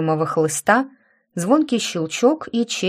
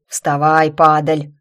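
громко рявкнуть, хрипло; злобный хриплый рявк; рявкнул; 3 semitones lower, 6 dB louder, slower than usual. Acted. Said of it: "рявкнул всё тот же хриплый голос". (рявкающий надсмотрщик)

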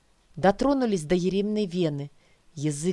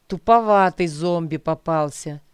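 dejected; 6 dB louder than usual. Acted. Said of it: "сокрушённо отозвался незнакомец".

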